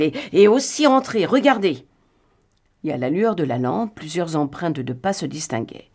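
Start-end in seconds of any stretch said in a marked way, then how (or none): 0.0-1.9 higher, louder eager exclamation; exclaiming. A narrator's reading. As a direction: cry it out as if you've found the clue. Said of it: "s'écria-t-il".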